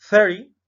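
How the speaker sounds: "Thirty" with the T like a quick R; loud, high "Thirty" with a flap; "Thirty" said like "thiri"; flapped T. Shown as a demonstration. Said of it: "igual la T no suena".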